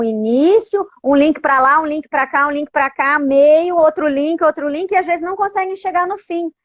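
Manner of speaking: enumeração encadeada, pulando de link em link; saltando entre assuntos. Shown as a demonstration. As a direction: emende um desvio no outro, sem pausas. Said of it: "Eles saem de um assunto pra outro numa velocidade". (enumeração saltitante, em cadeia)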